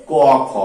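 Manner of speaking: ক খ said as ko-kho; two separate sounds. Shown as a demonstration. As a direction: answer ক খ with both sounds distinct. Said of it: "কি উচ্চারিত হবে?".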